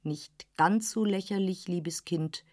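ein Hauch tiefer, gönnerhafter Herr; leicht gespielter älterer Herr. Acted. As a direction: als älterer Herr väterlich zur jungen Frau. Dorsday spricht, tiefere Stimme. (Herr von Dorsday, leicht tiefer gesprochen, gönnerhaft)

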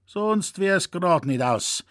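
put-on a grumbling old poacher lamenting his back; old Zecherl grumbling to young Franz; old Bavarian hunter. Zecherl replies.

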